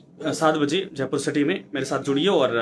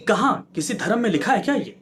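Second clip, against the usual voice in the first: higher-pitched, insistent rhetorical questions; indignant challenge; 3 semitones higher than usual. Real, not acted. Anchor challenges those justifying misconduct by religion, indignant. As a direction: fire off each question as a real challenge.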